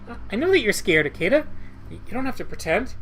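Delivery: near tears. Acted. Girl insists Ikeda is scared, shrill and nearly crying. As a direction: insist through rising panic. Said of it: "Naneko is screaming on the verge of crying".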